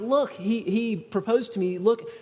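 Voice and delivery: lightly voiced happy fiancée; giddy bride-to-be. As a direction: imitate a thrilled newly engaged woman showing off. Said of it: "they're so happy, they're like".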